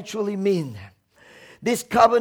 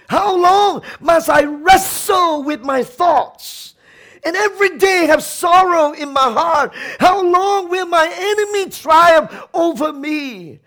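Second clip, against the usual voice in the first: crying out to God; 2 semitones higher, 3 dB louder than usual. Retold or imitated. Preacher voicing David's loud lament to God. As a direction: cry out the psalm in anguish. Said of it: "David cried out and said".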